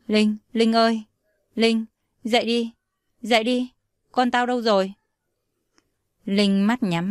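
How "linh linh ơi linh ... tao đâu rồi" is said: panicked calling. Acted. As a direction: wake her up in a panic. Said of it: "hốt hoảng hỏi". (hốt hoảng gọi bạn dậy hỏi con đâu)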